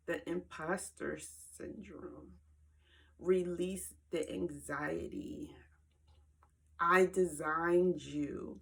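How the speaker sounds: slow, unhurried and reassuring; God's calm voice. Retold or imitated. Retelling the voice heard while meditating, calm and slow. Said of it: "this is the voice I heard".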